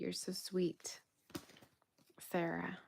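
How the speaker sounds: slow, breathy whisper to a viewer. Real, not acted. Thanking Sarah in the chat, whispered slowly. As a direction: hush it, tender and slow.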